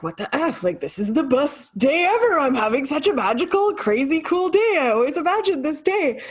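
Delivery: high-pitched, worked-up mock wail; mock tearful outburst. Co-host retelling her shopping meltdown, mock tearful wail. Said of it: "three minutes of hot tears".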